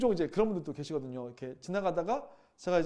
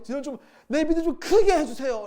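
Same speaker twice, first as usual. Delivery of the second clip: higher, louder, begging cry for more faith; pleading disciples; 9 semitones higher, 10 dB louder than usual. Retold or imitated. Disciples begging the Lord, loud pleading. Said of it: "라고 얘기하는 거죠".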